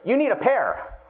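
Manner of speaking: a hint of insistent inner voice; bossy inner brain. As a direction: lightly play the brain laying down the rule. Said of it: "The brain kicks in, goes".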